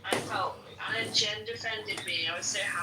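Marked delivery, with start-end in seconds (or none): 2.3-2.8 crying happy tears. Real, not acted. Overjoyed, voice breaking.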